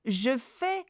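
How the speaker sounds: careful French model reading for repetition; teacher leading learners through a French text; read after me. Shown as a demonstration. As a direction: read aloud clearly, phrase by phrase. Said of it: "Read after me. Lisez avec moi".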